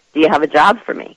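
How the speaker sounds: ordinary delivery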